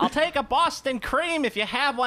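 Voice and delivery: high, slowing comic impression; mock eclair seeker. Accepting a donut instead of eclair, high comic voice. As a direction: settle for it in a high put-on voice.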